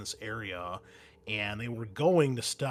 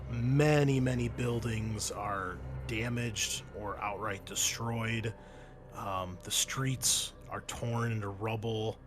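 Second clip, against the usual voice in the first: game master narration; 3 dB quieter than usual. Acted. Game master describes the war-torn city, narrating. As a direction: draw out the description of the ruins.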